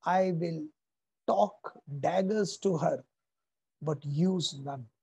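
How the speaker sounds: slow, deliberate, each word weighed; slow measured vow. Retold or imitated. Hamlet to himself before facing mother, slow steady resolve. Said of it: "He says".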